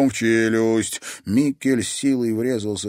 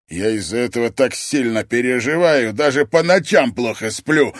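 sarcastic growl; 3 semitones higher, 6 dB louder than usual. Acted. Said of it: "рыкнул Вернер".

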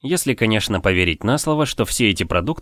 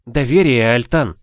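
exclamation; 3 dB louder than usual. Acted. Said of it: "воскликнула Тиона".

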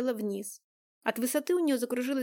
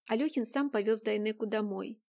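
ordinary delivery

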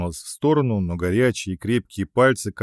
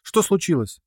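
high, scared little squeak; high timid squeak of a scared girl; frightened squeak; 8 semitones higher than usual. A narrator's reading. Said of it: "пискнула Рина".

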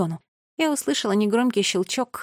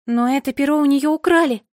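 loud, higher alarmed exclamation; exclaiming; 5 semitones higher, 6 dB louder than usual. A narrator's reading. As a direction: blurt out the shocking news. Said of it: "воскликнула я".

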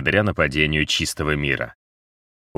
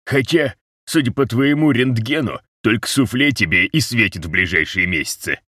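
sarcastic grumble; 6 semitones higher than usual. A narrator's reading. Ruze continues sarcastically.

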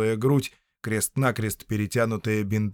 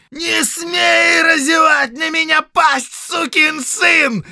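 slow, much higher furious roar; 9 dB louder, slower than usual. Acted. Count roaring at the prisoner, furious shout. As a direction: scream it, half-rising from the chair. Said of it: "взревел Фредерик".

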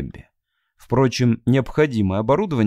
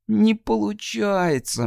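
higher, slow despairing moan; 9 semitones higher, slower than usual. Acted. Moaning in despair to Matt. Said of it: "простонала она".

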